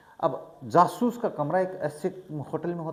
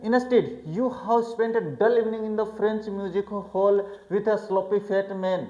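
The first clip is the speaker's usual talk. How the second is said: slow, deliberate reading of the text aloud; careful classroom read-aloud; slow English reading; 3 semitones higher, much slower than usual. A narrator's reading. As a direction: read each English phrase slowly for the class. Slow read-aloud of novel passage.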